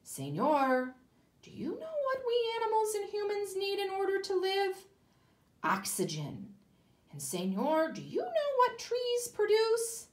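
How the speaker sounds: high, loud little porcupines. Acted. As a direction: pipe it high and eager. Porcupines speak to man.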